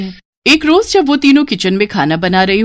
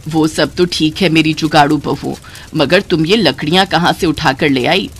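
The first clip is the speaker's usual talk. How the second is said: lightly voiced mother-in-law; 4 semitones lower than usual. Mother-in-law asks where the wood came from, lower. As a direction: ask like a puzzled elder.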